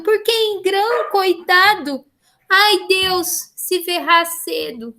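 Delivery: slow, lilting recital of a medieval song; a teacher reciting a troubadour poem. Shown as a demonstration. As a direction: read it like a lament to the sea. Teacher recites cantiga de amigo.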